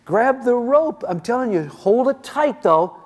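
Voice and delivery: father yelling up at his son in the tree, loud and urgent. Retold or imitated. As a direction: shout the instructions up into the tree. Dad yells instructions up tree.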